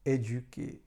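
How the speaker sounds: "éduquer" with a closed É and a French U; teacher showing accent aigu; French pronunciation. Shown as a demonstration. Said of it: "Na przykład w słowie".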